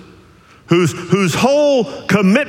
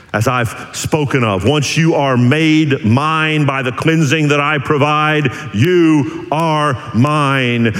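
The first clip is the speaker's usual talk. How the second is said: reassuring; 4 semitones lower, slower than usual. Retold or imitated. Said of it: "Jesus says".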